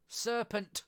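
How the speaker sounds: loud, high scream of accusation. A narrator's reading. Pigeon screams at Alice, taking her for a serpent. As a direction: shriek it out in alarm. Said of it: "screamed the pigeon".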